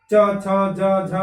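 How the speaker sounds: च छ ज झ said slowly, tongue touching the palate; teacher repeating palatal sounds for the class; palatal demo. Shown as a demonstration. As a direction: model च, छ, ज, झ carefully. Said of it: "च, छ बोलते समय".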